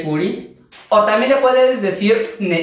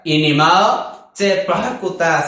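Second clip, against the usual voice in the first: sassy tone; slower than usual. Shown as a demonstration. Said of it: "lo haga con el tono".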